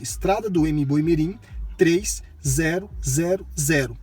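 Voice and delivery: "três zero zero zero" digit by digit, slowly; "Estrada do M Boimirim" spelled out clearly for the GPS; clear spoken address. Shown as a demonstration. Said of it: "Você tem que falar o seguinte".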